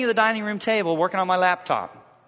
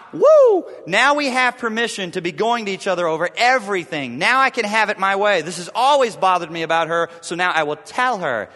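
mock gleeful; 2 semitones higher, 6 dB louder than usual. Mocking gleeful spouse.

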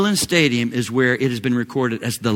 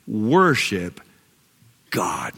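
hushed; 7 semitones lower, much slower than usual. Real, not acted. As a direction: drop to a reverent whisper. Hushed close to the reading.

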